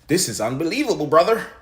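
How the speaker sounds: exasperated disbelief. Real, not acted. Creator venting at a critic over a skit, incredulous. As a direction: throw up your hands in disbelief.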